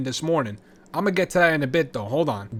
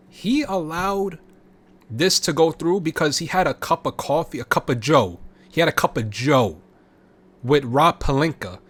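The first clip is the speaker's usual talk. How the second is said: mocking; 3 dB louder than usual. Real, not acted. Mocking GM coffee deal.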